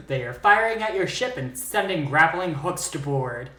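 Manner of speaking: theatrical narrator voice, building tension; dramatic storytelling. Acted. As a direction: spin it like a campfire tale.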